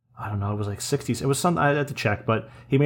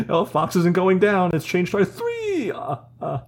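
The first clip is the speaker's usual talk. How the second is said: slow, high cartoon Italian accent; 8 semitones higher, slower than usual. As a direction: keep the Italian accent going. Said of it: "That's an Italian accent".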